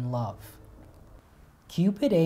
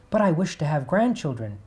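louder, puzzled protest; calling back; 3 semitones higher, 5 dB louder than usual. Acted. River god calling back to his daughter, louder. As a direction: push back against her request. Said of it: "called back".

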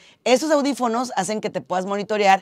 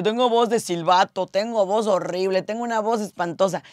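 mock complaint. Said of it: "Hay gente que dice".

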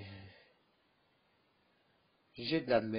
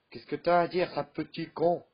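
angry challenge; 5 semitones higher, 4 dB louder than usual. Acted. Quarrel escalates.

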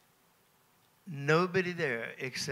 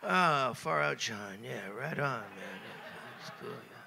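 trying to be cool; 2 semitones lower than usual. Retold or imitated. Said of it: "I'm trying to be cool".

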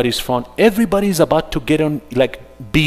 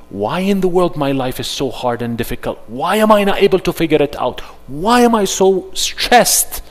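stressed complaining; 5 semitones higher than usual. Retold or imitated. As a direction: play the stressed believer asking why me. Voicing a stressed person.

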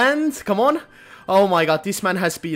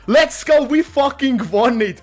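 high, loud cheer of a real win; victory yell; 8 semitones higher, 5 dB louder than usual. Real, not acted. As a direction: shout it out like you just won big. Winning the stake.

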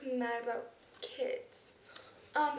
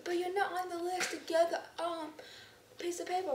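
imitating teacher; 5 semitones higher than usual. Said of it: "But they go".

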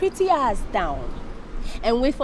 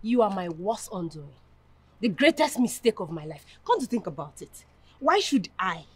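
low, quiet bitterness; cold contempt; 4 semitones lower, 5 dB quieter than usual. Acted. Woman telling her boyfriend he is a mistake, coldly contemptuous. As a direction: pronounce the verdict with quiet disdain. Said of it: "Why are you sounding this way?".

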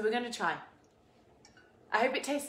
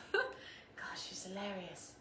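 laughing; 2 semitones lower, 8 dB quieter, much slower than usual. Real, not acted. Laughing about her mother.

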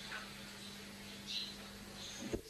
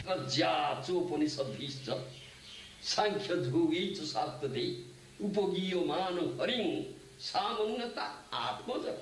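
measured, sustained scripture recital; intoned Sanskrit shloka; Sanskrit verse recitation; 2 semitones lower than usual. Real, not acted. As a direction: recite the verse with long-held line endings.

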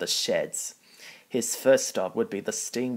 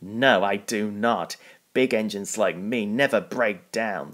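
sneering. Acted. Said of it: "Spencer sneered".

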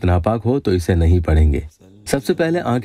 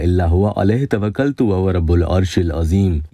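measured Arabic verse recitation; sacred verse read out with care; Quran recitation; 3 semitones lower than usual. Acted. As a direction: recite the verse evenly and solemnly.

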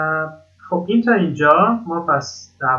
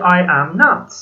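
I am not, slow, with not rising and stressed; slow teacher model stressing not; 2 semitones higher, 5 dB louder, much slower than usual. Shown as a demonstration. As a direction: lean on the word not as you teach it. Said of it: "فقط کافیه یه not".

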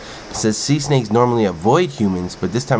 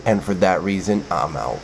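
Shark Tank pitch reply; 2 semitones lower, 3 dB quieter than usual. Retold or imitated. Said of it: "this is Shark Tank".

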